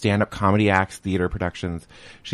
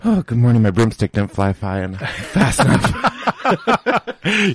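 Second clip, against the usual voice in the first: breathless after a rush; catching breath while talking; 4 semitones higher, 5 dB louder, slower than usual. Real, not acted. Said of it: "You're a little out of breath".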